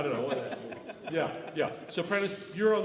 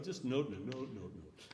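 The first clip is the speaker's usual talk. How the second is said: each note short and separate; crisp separated note repeats; detached notes; 11 semitones lower, 15 dB quieter than usual. Shown as a demonstration. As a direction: tap out every note apart. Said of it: "change your articulation here".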